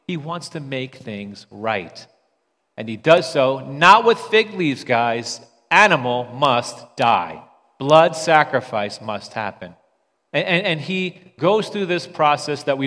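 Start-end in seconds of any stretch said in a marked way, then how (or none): 2.8-9.7 louder, slow and emphatic; forceful preaching. Real, not acted. Pastor presses the congregation about sacrifice, emphatic and loud. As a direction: hammer the point home to the church.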